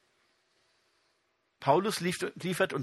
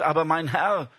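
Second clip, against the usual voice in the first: louder pleading protest; Gideon's cry; 5 dB louder than usual. Acted. Preacher voicing Gideon protesting to God, mild plea. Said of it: "rief Gideon".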